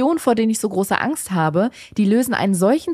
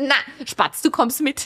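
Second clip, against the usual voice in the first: put-on alpine Bavarian dialect accent; 4 semitones higher than usual. Showing how Evelyn would say it, Evelyn voice, Bavarian-sounding. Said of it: "Das klingt wie so Resi von der Almhütten".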